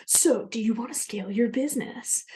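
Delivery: lightly put-on American bro marketer; American accent. Bro marketer messaging a prospect, mock American accent. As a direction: imitate an American salesman's accent. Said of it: "I said that in an American accent".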